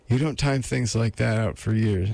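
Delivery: a hint of a lady's voice; lightly voiced woman. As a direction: lightly put on a female character.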